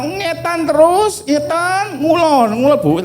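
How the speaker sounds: put-on a sing-song old village woman pointing the way; village woman giving directions. Village woman answers the lost preacher, high and sing-song. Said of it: "pakai kemben, bawa kayu".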